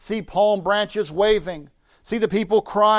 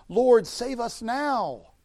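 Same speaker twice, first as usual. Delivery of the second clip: higher, slow, drawn-out plea; crying out; 5 semitones higher, much slower than usual. Acted. Crowd calling out for a Savior, slow raised plea. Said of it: "They're crying out for a Savior".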